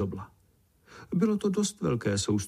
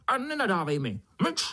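high shrill scolding; squeaking beetle; 8 semitones higher than usual. A narrator's reading. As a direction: snap at him to shut up, squeaky. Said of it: "pištěla".

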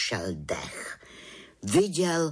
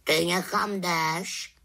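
higher, slow and wondering; a puzzled raven asking; surprised raven; 7 semitones higher, slower than usual. Acted. Havran asks the little witch where she is going, surprised. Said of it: "podivil se Havran".

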